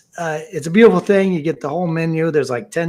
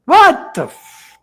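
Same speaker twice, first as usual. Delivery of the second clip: much higher, loud, drawn-out disbelief; retold exasperated outburst; 12 semitones higher, 6 dB louder, much slower than usual. Caller hears the wait time once more, mock exasperation. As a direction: burst out and cut off the curse.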